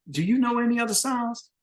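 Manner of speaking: high, taunting question; mocking question. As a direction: needle him in front of everyone. Bandleader taunting on mic.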